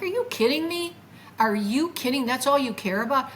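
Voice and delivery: mock outrage at what they ask; exasperated disbelief. Answering people who only ask his looks, exasperated. Reacting to shallow questions.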